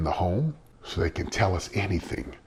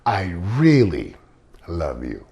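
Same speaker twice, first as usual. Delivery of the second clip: tender reveal; 4 dB louder, slower than usual. Retold or imitated. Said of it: "what were you gonna say".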